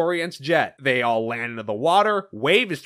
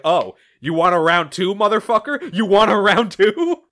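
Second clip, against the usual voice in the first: challenging; 4 semitones higher, 5 dB louder than usual. Retold or imitated. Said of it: "Knuckles takes that personally".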